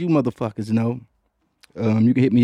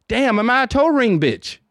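surprised; 10 semitones higher than usual. Real, not acted. Self-mocking realization.

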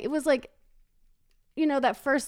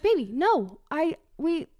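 mock protest; 6 semitones higher than usual. She objects to husband, retold.

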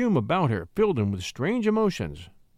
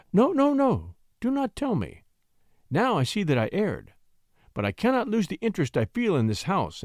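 coy, wistful lady; 3 semitones higher than usual. Acted. Lady excuses her interest in her old home, lightly wistful. Lady stops the poet, explains herself.

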